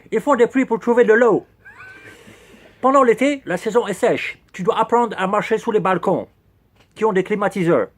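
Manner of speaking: put-on clumsy English accent on French words; mock English accent, lightly done; horrible English accent. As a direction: keep up the bad English-accented guide voice. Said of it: "Quel horrible accent anglais".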